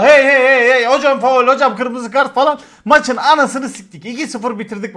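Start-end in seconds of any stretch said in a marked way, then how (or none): 0.0-2.3 loud sideline yelling; shouting hey. Retold or imitated. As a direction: yell it across the pitch like a coach. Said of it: "Adam gibi bağırıyorum orada". (sahada bağıran hoca gibi yüksek sesle)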